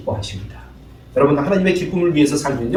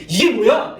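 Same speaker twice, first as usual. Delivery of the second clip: mock complaint, a bit louder; complaining; 4 semitones higher, 4 dB louder, slower than usual. Husband scoffing at wife's cooking, mock complaint. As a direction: scoff at the food. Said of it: "이렇게 아니라".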